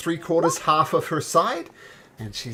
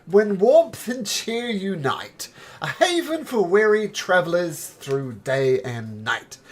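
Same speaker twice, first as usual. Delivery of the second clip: announcing sign voice; 8 semitones higher, 8 dB louder than usual. Acted. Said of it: "Word Splasher says".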